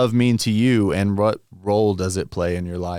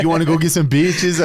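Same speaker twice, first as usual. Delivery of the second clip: excited question; 7 semitones higher, 6 dB louder than usual. Retold or imitated.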